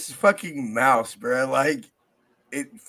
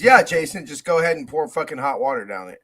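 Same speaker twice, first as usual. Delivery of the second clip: sarcastic; 5 dB louder than usual. Retold or imitated. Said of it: "the last thing I would have said is".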